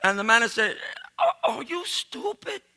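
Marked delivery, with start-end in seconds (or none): 1.2-2.6 laughing. Real, not acted. Manager incredulous, teller laughing.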